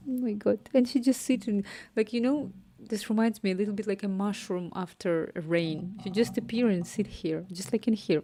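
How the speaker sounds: excited. Real, not acted. Excited about her cat.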